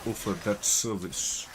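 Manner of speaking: put-on measured, formal African-accented concierge; Charon. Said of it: "I can do an okay version of Charon".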